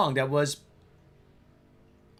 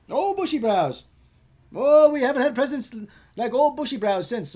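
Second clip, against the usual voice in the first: wistful, louder and higher; nostalgic old-timer; 6 semitones higher, 5 dB louder than usual. Pretend. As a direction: sigh it out like a grandpa.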